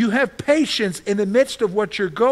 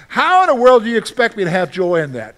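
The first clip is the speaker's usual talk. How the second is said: louder, incredulous challenge; indignant objection; 3 semitones higher, 8 dB louder than usual. Retold or imitated. Pastor voicing a listener's protest, louder and incredulous. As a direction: throw the objection back hard.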